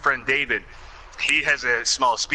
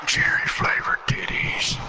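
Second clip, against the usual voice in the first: put-on Carl Childers voice; slower than usual. Carl impression continues.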